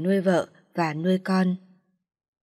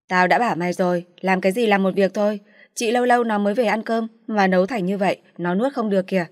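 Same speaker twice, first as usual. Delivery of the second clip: mother's irritated scolding, a bit louder; 3 dB louder, faster than usual. Acted. Mother scolds daughter over salty food, irritated. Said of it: "Mẹ đứng dậy mắng".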